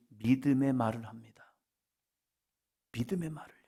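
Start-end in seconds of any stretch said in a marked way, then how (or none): 2.9-3.6 hushed whisper. Real, not acted. Preacher whispering the point to the congregation. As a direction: breathe it out quietly.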